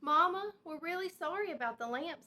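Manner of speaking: high, pleading little cub voice; child's apology. A narrator's reading. Brother Bear apologizes to Mama, high and pleading. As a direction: plead like a sorry small child.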